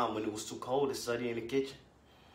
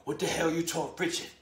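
accusing father; 3 semitones higher than usual. Acted. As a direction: confront her about the boy. Father accusing mother about son.

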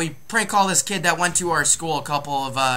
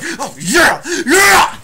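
building to a much higher, louder yeah; mock eager detective; 8 semitones higher, 6 dB louder, much slower than usual. Imitating the detective's excitement for friends, hammed-up rising yeah. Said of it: "He's like".

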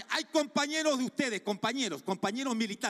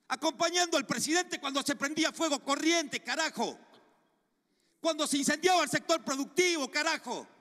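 rising fury, spitting out carajo; angry raised voice; 5 semitones higher than usual. Real, not acted. Senator scolds the minister over the Corrientes fires, furious and raised.

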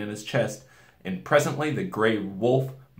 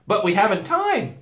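put-on high, louder girl; anxious Susan; 12 semitones higher, 6 dB louder than usual. A narrator's reading. Girl urging haste, high and anxious. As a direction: protest urgently in a raised pitch.

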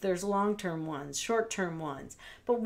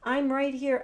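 coddling; 4 semitones higher than usual. Shown as a demonstration. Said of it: "Please try not to coddle your dog".

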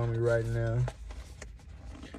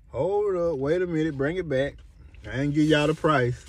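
excited; 5 semitones higher, 4 dB louder than usual. Real, not acted. Calls the video back, excited.

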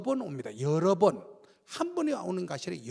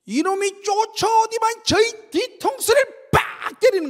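high, loud, slow burst of telling; excited retelling; 13 semitones higher, 10 dB louder, slower than usual. Retold or imitated. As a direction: build it up loud like a shock. Retold being hit from behind. (높고 크게 흥분한 회상)

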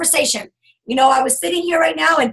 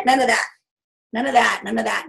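ordinary talk, nothing marked

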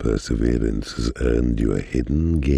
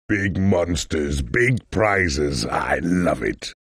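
higher, thrilled shout; excited; 6 semitones higher, slower than usual. Acted. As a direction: hype it up like a showman. Excited announcer line.

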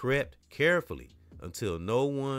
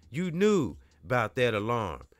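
grunted; 4 semitones higher, 5 dB louder than usual. Acted. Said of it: "grunted Major".

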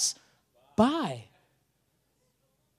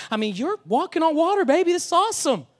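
much higher, louder mock thrill at "walking on water, baby"; mock giddy excitement; 7 semitones higher, 5 dB louder than usual. Pastor mocks a comfortable believer, giddy and higher. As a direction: ham up a smug churchgoer's delight. Mocking self-satisfied churchgoer.

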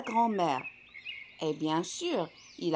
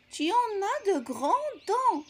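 put-on alarmed girl; 8 semitones higher, slower than usual. A narrator's reading.

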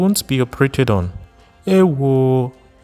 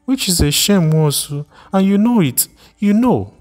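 shrill accusation; 7 semitones higher than usual. Acted. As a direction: hurl the name at him, rising in outrage. Repeated accusation climbs higher.

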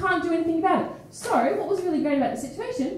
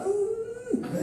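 constipated grunt; 9 semitones higher, 5 dB quieter than usual. Retold or imitated. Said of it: "literally, like, constipated".

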